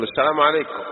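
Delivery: a hint of condescension in "السلام عليكم"; arrogant greeting. Arrogant man greeting God's servants, lightly condescending. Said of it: "تتكبر على عباد الله".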